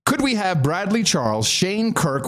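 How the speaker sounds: high, grand ceremonial proclamation; ceremonial announcer. Acted. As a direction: proclaim like a herald at court.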